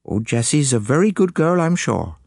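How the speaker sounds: high, fretful English lady confiding her fear; a nervous woman pleading for help; anxious lady client. Acted. Mrs Pengelly tells Poirot she fears poison, anxious.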